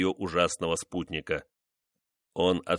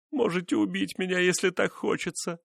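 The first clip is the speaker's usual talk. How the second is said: moaning; 10 semitones higher than usual. A narrator's reading. Wife giving up before her husband, moaning. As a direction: moan it out, broken. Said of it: "простонала она".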